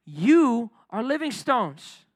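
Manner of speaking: stretched-out call that builds on the first line. Shown as a demonstration. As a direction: lift it up the second time for the congregation.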